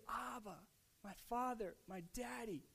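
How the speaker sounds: softly voiced address to a father; hushed, intimate prayer. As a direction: let each name fall away softly. Voicing Jesus praying to his Father.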